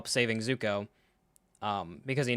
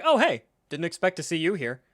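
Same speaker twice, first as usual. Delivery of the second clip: high, loud "oh hey", then easing off; mock casual greeting; 4 semitones higher, 3 dB louder than usual. Mocking the characters' mild reaction to Iroh, mock casual. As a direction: play an absurdly chummy chance meeting. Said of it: "that literally is just like".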